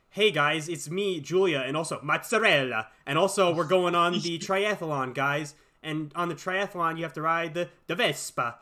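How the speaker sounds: chirpy American kid lapsing into mock Italian on key words; American accent, hammed-up Italian on mozzarella and Vespa; mock Italian-American switching. Host mocking the movie's kids, American accent sprinkled with Italian. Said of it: "normal-ass American accents and then switch to sounding Italian".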